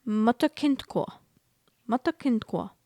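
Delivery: imitating a German pronunciation clip; amateur go at German pronunciation; attempted German accent. Shown as a demonstration. American repeating the pronunciation clip, attempted German accent. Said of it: "this is obviously a German accent".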